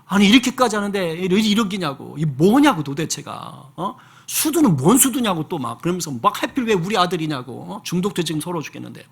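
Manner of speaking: angry rant. Retold or imitated. Father shaking his finger at God, railing in anger. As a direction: imitate him railing at God. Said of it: "너무 화가 나가서 ... 삿대질하면서".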